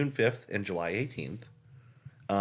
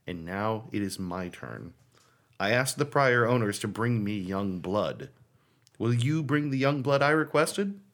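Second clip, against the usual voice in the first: creepy letter reading; 2 semitones lower than usual. Acted. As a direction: read it like a menacing stalker letter. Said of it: "understand how creepy this is".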